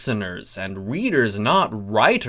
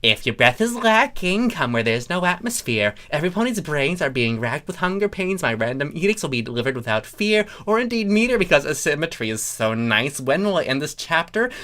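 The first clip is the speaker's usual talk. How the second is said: a hint of a pompous herald rattling on; obnoxious voice; 4 semitones higher, faster than usual. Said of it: "read it in a very obnoxious voice".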